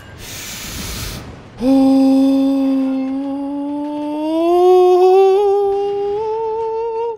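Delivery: sharp high gasp of relief; excited gasp. Real, not acted. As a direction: gasp at the close call. Narrow escape.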